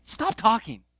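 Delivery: God rebuking Peter. Retold or imitated. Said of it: "as if God is saying this".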